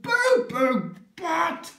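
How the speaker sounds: very high, slow singsong; sing-song of the silly hippo name; drawn-out sing-song. Acted.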